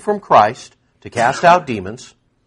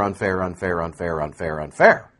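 mocking whine; 8 semitones lower, 4 dB quieter than usual. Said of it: "they decry unfair".

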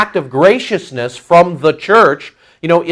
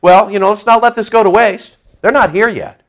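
lightly acted self-justifying, higher pitched; rationalizing; 4 semitones higher than usual. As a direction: excuse it to yourself in a higher voice. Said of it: "See how it goes for the rationalism".

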